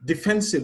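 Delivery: Defensive stressed as de-FEN-sive; stress on second syllable. Shown as a demonstration. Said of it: "on the second syllable".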